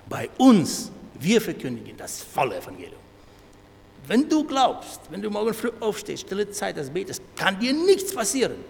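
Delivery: loud, high, emphatic boasting; overconfident preaching. Acted. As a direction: proclaim it loudly with total certainty. Voices boastful, overconfident believers' preaching. (lautes, selbstsicheres Predigen)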